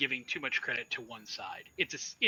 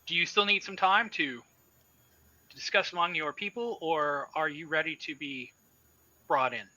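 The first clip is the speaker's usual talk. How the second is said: higher, crisp official voice over the comm; 4 semitones higher, 5 dB louder than usual. Acted. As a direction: clip it like a station officer on the radio. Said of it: "crisp voice comes out".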